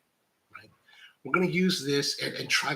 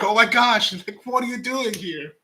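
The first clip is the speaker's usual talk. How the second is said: higher, louder exasperated cry; mock yell at screen; 7 semitones higher, 4 dB louder than usual. A coffee pro yelling at his screen in exasperation. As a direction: yell in disbelief at a bad video. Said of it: "I'm yelling at my screen".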